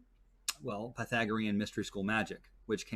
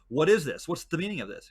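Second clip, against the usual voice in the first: louder, indignant royal demand; mock angry king; 4 semitones higher, 5 dB louder than usual. King confronting his chef over the saltless feast, mock indignant. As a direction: bark it as the offended king, lightly played.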